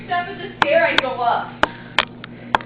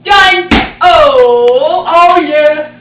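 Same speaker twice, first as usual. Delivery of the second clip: excited shout; 10 dB louder, much slower than usual. Real, not acted. Triumphant after burping the alphabet.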